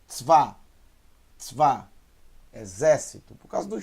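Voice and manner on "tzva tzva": "Tzva" snapped out as one syllable; quick sheva. Shown as a demonstration. Teacher showing learners how fast it is, quick one-syllable "Tzva". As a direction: run TZ straight into VA with no vowel between. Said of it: "Olha só como é rápido".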